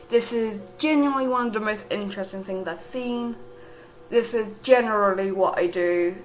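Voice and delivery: a light posh British voice for the character; a hint of a formal, posh British gentleman; quoting the character in a mild posh British accent. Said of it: "this posh, poshest British voice".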